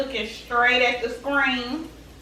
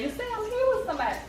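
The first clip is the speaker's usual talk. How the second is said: sassy retold comeback; 10 semitones higher, 5 dB quieter, much faster than usual. Retelling her reply to the flirt.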